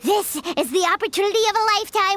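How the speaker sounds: fast, eager food plans; eager excitement. Acted. Paimon excitedly plans to eat at the bathhouse for free. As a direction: rush ahead, thrilled about free food.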